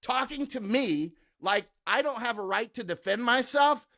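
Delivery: high, slow sneer; scornful retort to a gun critic; contemptuous retort. Retold or imitated. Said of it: "I'm like".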